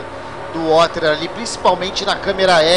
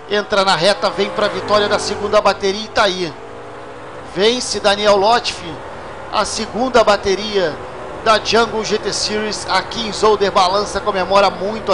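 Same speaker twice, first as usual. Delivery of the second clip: excited finish call; 2 semitones higher than usual. Real, not acted. Calling the race winner.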